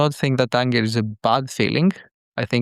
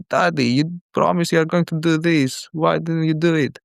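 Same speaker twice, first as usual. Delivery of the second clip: mildly stern imitation of a child, pitched higher; son's stern voice; 4 semitones higher than usual. Parent quoting the son holding Dad to a promise, mildly stern. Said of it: "use his stern voice".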